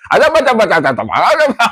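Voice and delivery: imitating a fast talker in a gabbled stammer; rapid-fire mimicry. Host imitating a reporter who talks too fast, gabbled. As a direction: gabble it like a pundit racing through words. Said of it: "แล้วพี่แกพูด พูดไวมาก".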